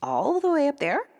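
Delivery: hope for a different answer; hopeful princess. A narrator's reading. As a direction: princess begging to be wrong. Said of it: "hoping for a different answer".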